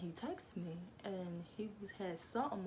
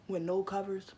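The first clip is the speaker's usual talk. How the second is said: louder emphasis; 6 dB louder than usual. Real, not acted. Repeat, louder.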